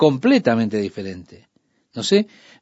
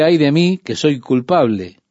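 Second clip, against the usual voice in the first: a prophet's mild outcry of guilt. Retold or imitated. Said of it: "Su clamor fue".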